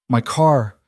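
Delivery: a lightly voiced old Italian woman, hoarse; raspy Italian accent. A narrator's reading. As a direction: rasp it out in a faint Italian accent, half-frozen. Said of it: "The woman's voice was raspy, accented".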